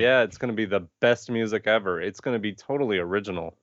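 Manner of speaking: deadpan mock praise; sarcastic. Real, not acted. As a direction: say it with dry sarcasm. Sarcastic about Hans Zimmer score.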